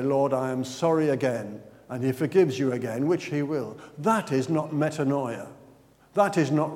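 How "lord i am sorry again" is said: lower, offhand repeat; a bored, habitual sorry; routine apology. Retold or imitated. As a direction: toss off the same prayer by habit. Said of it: "you say".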